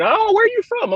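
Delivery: high-pitched imitation of an English local; English accent. Locals asking the visiting runner, mock English accent. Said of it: "start speaking in the accent".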